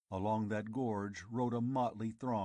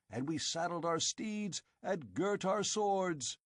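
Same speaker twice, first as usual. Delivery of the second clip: put-on accusing old chief; 9 semitones higher than usual. Old chief accusing Conan before his men, bitter. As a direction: hurl the accusation.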